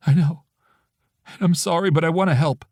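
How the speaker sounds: pleading woman. A narrator's reading. Friend begging to be allowed to help, earnest. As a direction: insist she wants to help. Hannah's voice on phone.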